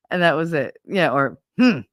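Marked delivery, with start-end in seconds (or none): 1.6-1.8 short, pointed hum; different-toned hmm. Retold or imitated. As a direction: imitate another of grandma's wordless verdicts. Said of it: "there were different intonations".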